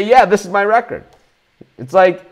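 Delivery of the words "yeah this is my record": high, mocking smug claim; mocking quote. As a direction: parody a lying tout. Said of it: "They just say".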